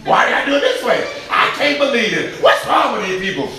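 high-pitched, quick complaint; hammed-up workplace grumble; mock grumbling. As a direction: act out an exasperated worker griping. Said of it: "Oh, we grumbling".

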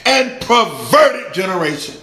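high, loud scripture proclamation; ringing pulpit declaration; full-force preaching. Acted. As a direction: preach it out, drawing out the last words.

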